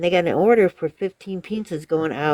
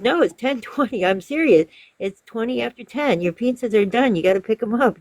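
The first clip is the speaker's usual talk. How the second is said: slightly raised, insistent retold argument; imitated insistent arguing; 5 semitones higher than usual. Pizza caller tells customer the order is ready, mildly insistent. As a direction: press the point as the pizza caller. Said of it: "arguing with him".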